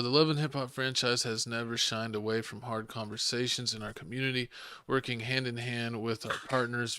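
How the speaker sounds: measured, even reading of an official statement. Acted. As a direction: read it out evenly like a press statement. Reads out a franchise statement.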